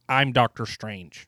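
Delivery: put-on American accent. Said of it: "His English accent is funny to me".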